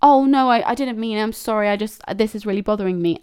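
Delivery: manipulative friend. Acted. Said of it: "will manipulate you and make you feel".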